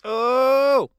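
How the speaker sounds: sudden high "Oh!" of shock; startled cry. Real, not acted. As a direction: gasp out loud in surprise. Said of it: "I love that aunt".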